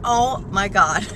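slow, drawn-out oh my God; overwhelmed by excitement; excited gasp. Real, not acted. Driver thrilled to leave the house, excited gasp. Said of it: "I need to calm down".

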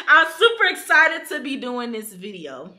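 real excitement through a laugh; laughing, genuinely excited. Real, not acted. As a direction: break into a laugh and mean it this time. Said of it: "I'm just kidding".

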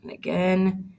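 lively read-aloud storytelling; story narration. A narrator's reading. Teacher reading a picture book to her class, lively.

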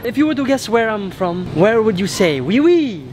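put-on French accent. Asking a stranger to guess, put-on French accent. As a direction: fake French questioning.

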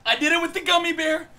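high, upset confession; distressed outcry. Real, not acted. Distressed right after killing it.

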